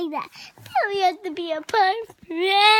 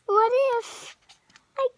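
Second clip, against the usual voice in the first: worried; 5 semitones higher than usual. Acted. Child voicing worried elephant.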